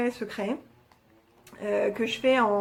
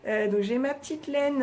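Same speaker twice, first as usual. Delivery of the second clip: usual speaking voice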